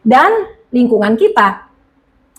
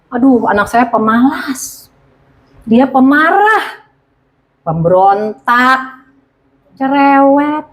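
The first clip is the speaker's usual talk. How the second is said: complaining parent; 2 semitones higher, slower than usual. Retold or imitated.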